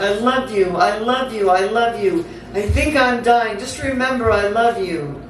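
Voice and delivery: recited tearful plea without real sobs; understated sobbing. Acted. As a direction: plead as if these are last words. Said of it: "I'm sobbing".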